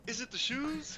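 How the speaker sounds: high-pitched mock arcade announcer; game announcer impression. Player quoting NBA Jam to his friends, high announcer voice. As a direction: toss out the catchphrase in a high announcer voice.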